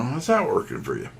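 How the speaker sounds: easy, non-threatening question with a lift on "that"; smooth and non-threatening. Shown as a demonstration. Salesman showing trainees how to ask, smooth and non-threatening. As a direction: toss out "How's that working for you?" smoothly, no pressure. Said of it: "throw it out there smooth".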